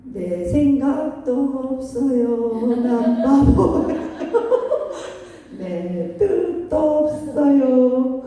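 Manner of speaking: very slow, laughing self-surrender; drawn out, give up your will with a laugh; meek surrender. Pretend. Voicing a surrendered believer like Paul. (아주 느리게 웃으며 내려놓는 고백)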